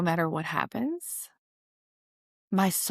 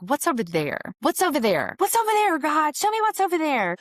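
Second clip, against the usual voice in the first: building plea to God; 9 semitones higher, 3 dB louder than usual. Retold or imitated. Pleading with God to be shown.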